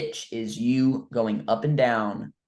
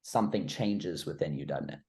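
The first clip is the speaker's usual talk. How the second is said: slow, deliberate pace with long pauses; 2 semitones lower, 4 dB quieter than usual. Shown as a demonstration. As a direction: let each pause land before the next phrase. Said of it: "The pace is what I changed".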